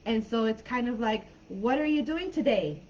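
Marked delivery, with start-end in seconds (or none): 1.5-2.8 "What are you doing today?" lifted in pitch like a question; questioning tune. Shown as a demonstration. Teacher shows how Kiwis sound, rising "today". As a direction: let "today" go up at the very end. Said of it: "sound like they're asking questions".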